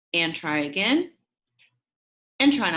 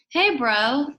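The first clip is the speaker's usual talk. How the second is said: louder, bright greeting; excited shout; 4 semitones higher, 5 dB louder than usual. Acted. Max greeting his new friend Carlos, excited shout. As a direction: call out happily to a friend. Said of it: "I shouted with a smile".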